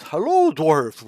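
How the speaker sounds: lightly blubbly sea creature greeting; slow, mildly blubbly fish-folk hello. Acted. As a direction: say it as if gurgling through water, just a touch. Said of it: "And he's got the blubbly voice".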